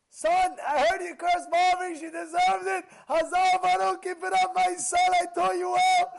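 high, loud gloating praise; mocking proud father. Rabbi mocks what any other father would say. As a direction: gush over the son like a proud fool. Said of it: "they'll be like".

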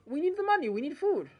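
high, urgent pleading; pleading wife. Acted. Wife urges Chaim they need food, high pleading voice. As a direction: beg him to agree.

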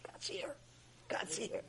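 hushed, urgent whisper. Acted. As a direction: whisper it as a secret warning. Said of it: "Why are you whispering?".

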